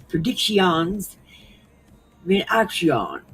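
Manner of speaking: drawn-out mock French, last syllables stretched; slow, exaggerated French pronunciation; French accent. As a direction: imitate a machine reading it with a French accent. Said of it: "it kept saying it in French".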